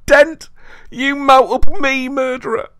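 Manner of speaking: very high, loud enraged roar; furious bellow. A narrator's reading. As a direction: rant in mounting fury. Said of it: "he bellowed".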